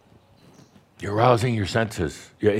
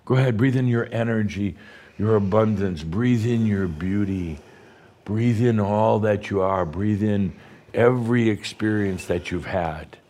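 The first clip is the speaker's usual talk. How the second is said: guided breathing. Acted. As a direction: talk them gently into each breath. Leads a breathing meditation.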